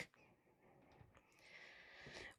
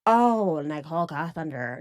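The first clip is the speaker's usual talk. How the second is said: lightly put-on voice, falling away; Kevin Kovac mockery; 4 semitones lower than usual. Shown as a demonstration. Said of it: "making fun of Kevin Kovac".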